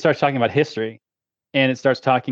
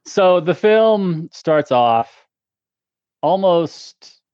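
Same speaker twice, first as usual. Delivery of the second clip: slow, lofty wine-snob voice, higher and louder; pretentious sommelier; 4 semitones higher, 4 dB louder, much slower than usual. Pretend. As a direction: play the haughty wine expert. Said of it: "attempt to do my best in my most pretentious sommelier behavior".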